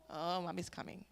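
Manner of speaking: low soft whisper; whispered warning. Retold or imitated. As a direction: hush it like a warning. Son's imagined whispered warning.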